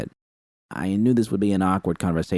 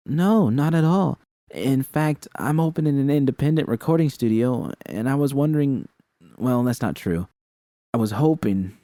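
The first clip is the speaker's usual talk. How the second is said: higher, eager, slowed sales pitch; eager invitation; 5 semitones higher than usual. Acted. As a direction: win her over gently but keenly. Eager pitch to shy girl.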